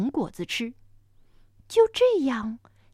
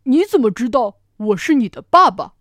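louder, startled big dinosaur; T. rex baffled at being called dad; surprised T. rex; 9 dB louder than usual. Acted. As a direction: caught off guard by the baby. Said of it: "霸王龙很惊讶".

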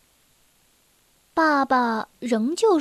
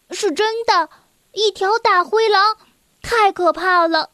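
higher, urgent and alarmed; frightened child insisting; 5 semitones higher, 3 dB louder than usual. Acted. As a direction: insist the danger is real. (害怕又急切地坚持)

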